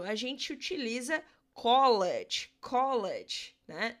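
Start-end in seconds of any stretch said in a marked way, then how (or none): 1.5-3.5 'college' said slowly, then repeated; American English word. Shown as a demonstration. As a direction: model 'college' twice for the class. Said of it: "No inglês americano".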